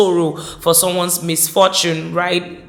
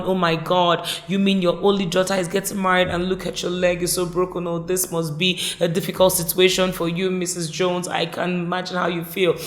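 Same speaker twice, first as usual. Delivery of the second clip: pitying sympathy; 3 dB quieter than usual. Retold or imitated. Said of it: "That's sympathy".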